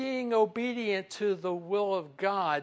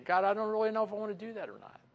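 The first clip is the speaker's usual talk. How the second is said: hesitant doubt; 5 semitones higher, much faster than usual. Pretend. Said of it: "and we're hesitating".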